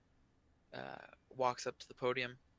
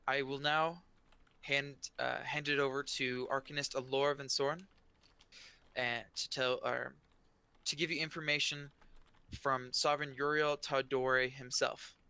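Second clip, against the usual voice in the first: a general speaking to the crowd; General Krieg; 4 dB louder than usual. Acted. General hands over speech.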